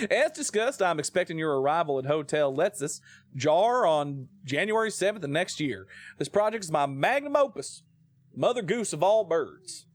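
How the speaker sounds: badly faked Italian accent; hammed-up Italian accent; Brad Pitt. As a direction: do a clumsy American attempt at Italian. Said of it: "sound like Brad Pitt trying to do an Italian accent".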